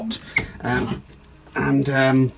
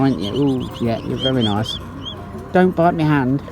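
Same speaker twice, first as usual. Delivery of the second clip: swan impression; 3 semitones higher than usual. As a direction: play a chatty swan greeting her babies. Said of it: "that's my impression of a swan".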